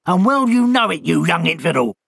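mock-outraged bird scolding; the hurt owl rounding on the culprit; bitter owl. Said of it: "said the owl bitterly".

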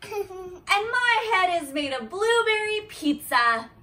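giggling through the words; laughing. Real, not acted. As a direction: read it while cracking up. Reading silly line, laughing.

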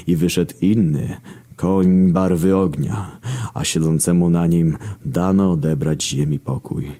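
slow, solemn phrases with long pauses; mock scripture recital. Narrator parodying the horsemen of Revelation, solemn recital. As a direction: intone it slowly like prophecy.

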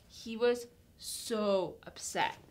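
ordinary talk, nothing marked

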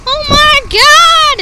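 high, slow, loud awe; amazed gasp. Real, not acted. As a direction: marvel at all the snow. Amazed at the snow.

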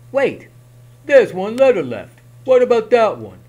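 high, loud little goblin; squeaky eager goblin asking. Acted. Goblin asks about last letter.

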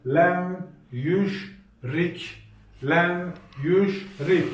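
letters read one by one, syllable by syllable; lem, yüş, rik spelled out slowly for the class; reading the letters aloud. Shown as a demonstration. Teacher spelling lem, yüş, rik out for the students. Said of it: "Okuyalım".

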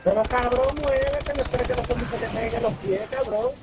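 yelling at teammate. Real, not acted. Gritándole al compañero en el juego.

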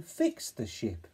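fix the ship slowly; slow caption. Shown as a demonstration. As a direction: stretch the caption. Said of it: "for the caption".

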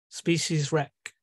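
Species wreck drawn out slowly. Acted. Neptune naming humans' ruin, slow Species wreck. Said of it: "in the voice of Neptune".

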